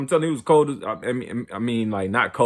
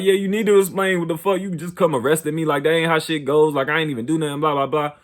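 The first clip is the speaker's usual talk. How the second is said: higher, indignant arguing; indignant protest to the arresting officers; heated back talk; 5 semitones higher than usual. Retold or imitated. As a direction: argue that this is not how arrests go. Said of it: "I'm still talking shit".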